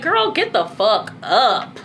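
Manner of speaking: lightly voiced stern great-grandmother; drawn-out, mild scolding from an elder; great-grandmother's tough love. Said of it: "I just hearing her voice".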